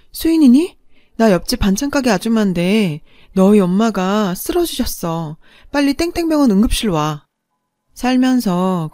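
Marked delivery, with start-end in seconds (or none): 0.1-7.3 lightly voiced urgent neighbour on the phone; a hint of an alarmed caller. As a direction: break bad news with some urgency.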